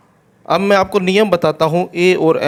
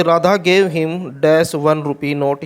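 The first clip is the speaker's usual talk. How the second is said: slow dictation; much slower than usual. Shown as a demonstration. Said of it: "next देखें".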